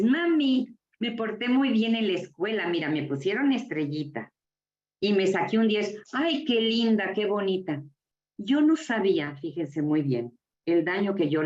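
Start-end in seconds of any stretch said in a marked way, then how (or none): 0.0-6.0 lightly voiced eager child calling mum; proud child. Child tells mum about good marks at school, mildly acted pride. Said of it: "Llegas con mamá y le dices". 6.1-7.8 doting mother. Retold or imitated. Mother praises her child's school marks, mildly acted doting.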